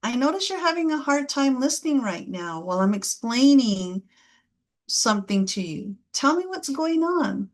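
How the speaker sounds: calm, patient parent voice; gentle demo; caring I statement. Shown as a demonstration. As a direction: model the caring reframe. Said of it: "might sound like".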